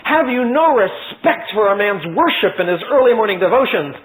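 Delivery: disturbed Pharaoh scolding Moses; greatly disturbed. Acted. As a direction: scold Moses for interrupting prayer. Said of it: "greatly disturbed".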